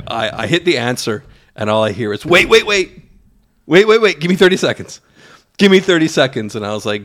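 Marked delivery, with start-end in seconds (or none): 2.3-6.6 higher and louder, rushed mock panic; frantic pleading. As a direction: imitate a friend begging for a chance to explain. Imitating partner's frantic phone plea.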